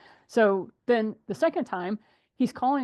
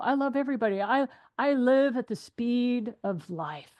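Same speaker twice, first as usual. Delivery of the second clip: mock carefree client; 3 semitones higher than usual.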